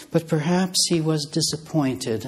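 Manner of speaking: disappointed given a firm, deliberate stress. Shown as a demonstration. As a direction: lean on the word disappointed, held and weighted. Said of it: "I stress the word disappointed".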